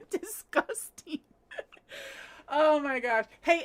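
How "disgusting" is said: soft, slow Scottish accent through laughter. Shown as a demonstration. Host retries her one word for Emma, laughing Scottish accent. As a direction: giggle out "disgusting" in a Scottish accent. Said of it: "disgusting with a Scottish accent".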